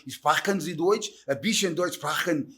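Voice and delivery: "Sprachen" slow, from the throat; throaty German sounds. Shown as a demonstration. Showing the host how German sounds, throaty "Sprachen". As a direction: drag "Sprachen" and "Deutsch" out slowly in the throat. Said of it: "o alemão vem na garganta".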